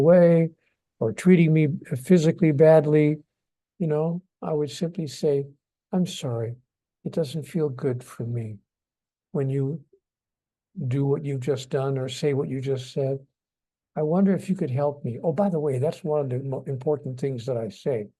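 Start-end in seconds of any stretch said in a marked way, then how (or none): 5.9-15.2 soft, quiet and kind; quiet, tender words to someone who hurt you; loving request. Shown as a demonstration. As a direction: gently ask for their help. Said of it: "say the same thing lovingly".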